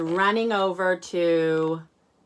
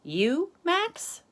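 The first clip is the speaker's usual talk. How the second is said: Arthur scoffing; 12 semitones higher than usual. Acted. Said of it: "says Max".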